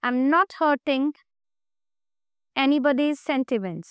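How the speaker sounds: very slow, with a long pause midway; slow dictation. Shown as a demonstration. Teacher building an English translation for students, slow dictation. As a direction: dictate it slowly for students to write down.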